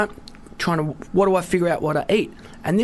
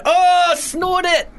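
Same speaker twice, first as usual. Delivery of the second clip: mock excited; 9 semitones higher, much slower than usual. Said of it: "and you go".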